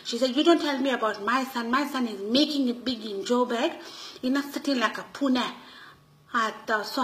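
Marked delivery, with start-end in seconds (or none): 0.3-5.5 mildly indignant retold scolding, a little higher; angry mother. Mother telling off aunt about her son, mildly angry. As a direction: imitate an offended mother defending her son. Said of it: "she got so angry with me".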